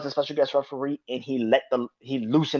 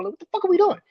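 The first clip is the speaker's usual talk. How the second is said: exasperated outburst; much faster than usual. Real, not acted. Exasperated rant.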